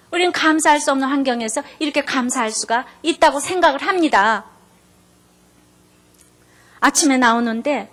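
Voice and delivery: usual speaking voice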